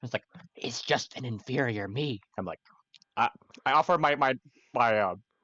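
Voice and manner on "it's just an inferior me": slow half-whisper, very close into the ear. Voicing a pet pseudo dragon talking about a new lizard: pseudo dragon half-whispering. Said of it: "and then whispers in my ear".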